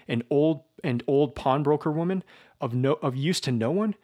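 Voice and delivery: indignant, mounting fury; furious justification. Acted. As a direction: defend the killing in a rage. Raskolnikov furiously justifies the murder.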